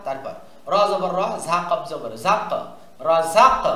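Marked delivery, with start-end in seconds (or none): 3.1-3.6 "র ঝাক" with a bounced final k; qalqalah bounce. Shown as a demonstration. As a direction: let the k of "ঝাক" echo briefly. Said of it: "এই যে কলকলা হয়ে গেল".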